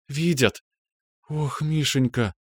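high, slow, near tears; a touch of a sob on his name; tearful. Acted. Grateful girl tells her doctor her eyes can see, tearful. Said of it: "и всхлипнула".

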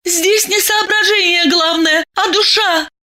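put-on high, fervent girl's cry; heartfelt exclaim. A narrator's reading. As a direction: pour feeling into it, high. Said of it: "с чувством воскликнула Маша".

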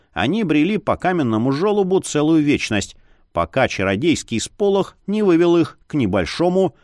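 usual speaking voice

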